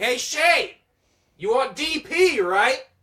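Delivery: very loud, very high, slow, booming drawn-out yell. Retelling how dad called across the mall: imitating dad screaming across mall. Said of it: "he screams across the whole fucking mall".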